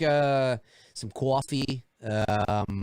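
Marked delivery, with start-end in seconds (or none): 0.9-1.8 New York accent. Shown as a demonstration. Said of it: "New York".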